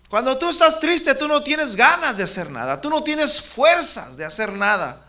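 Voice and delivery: predicando con fuerza y volumen alto; predicación enérgica. Acted. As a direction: proclama la palabra con fervor, mucho más fuerte. Preaching to children at full force. (predicador entusiasta que exhorta a los niños, voz fuerte)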